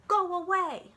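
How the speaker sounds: loud, high grumpy bark; loud cross elephant voice. Acted. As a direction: shoo the visitor off in a huff. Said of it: "he was very grumpy".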